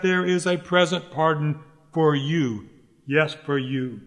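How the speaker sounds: emphatic pulpit declaration, falling on "for you". Real, not acted. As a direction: press home "present pardon for you". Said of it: "what I want to say most emphatically".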